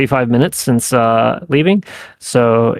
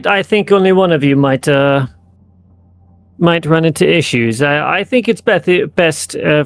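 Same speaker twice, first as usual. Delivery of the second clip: lightly voiced, somewhat higher-pitched negotiator; persuading game character; 4 semitones higher than usual. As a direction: make a hesitant offer in character, pitched up a little.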